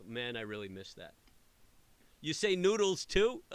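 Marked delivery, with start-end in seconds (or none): 2.2-3.4 much higher and louder, disbelieving; incredulous surprise. Real, not acted. Host reacting to caller who says noodles, incredulous surprise. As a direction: jump up in pitch, can't believe it.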